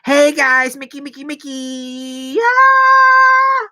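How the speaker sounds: high chirpy impression of a hyper streamer; bubbly happy streamer. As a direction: bounce like an overexcited host. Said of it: "She's very happy. She's like".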